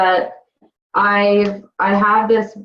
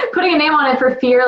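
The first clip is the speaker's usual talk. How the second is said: laughing; 8 semitones higher, faster than usual. Real, not acted. Repeats phrase laughing, nervous.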